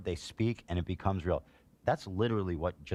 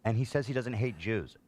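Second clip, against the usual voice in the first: higher mocking voice of a dismissive critic; mocking opponents; 3 semitones higher than usual. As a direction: parody the naive defender, lightly. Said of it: "what people go".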